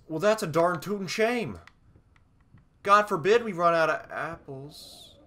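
loud, high hammed-up indignation; mock outrage. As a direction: exclaim in exaggerated horror at a trifle. Mock outrage over apples running out.

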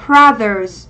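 "brothers" slowly, with a z ending; "brothers" drawn out to show its ending; model pronunciation. Shown as a demonstration. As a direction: model "brothers" carefully for learners, slow. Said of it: "sẽ đọc là gì".

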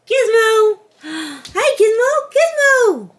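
high, loud squeals of the dog's name; excited calling. Real, not acted. Owner calling her dog Gizmo after taping, squealing high. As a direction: call the dog like he's the cutest thing ever.

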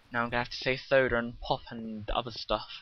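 plain British accent; just your British accent. Real, not acted. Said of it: "I said that with a British accent".

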